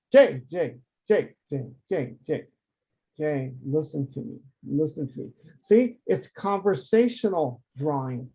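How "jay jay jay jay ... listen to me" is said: urgent calling, fading. Shown as a demonstration. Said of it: "It's like, you know, like".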